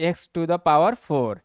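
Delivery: x to the power four read out slowly; slow reading aloud. Shown as a demonstration. Teacher reading the power aloud to students, slowly. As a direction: spell out each word of "x to the power four" slowly. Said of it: "ऐसे भी पढ़ सकते हैं".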